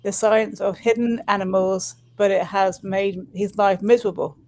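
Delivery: put-on lightly done London accent. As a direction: read it in a London accent, gently. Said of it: "I'm trying to do a, la-, a London accent".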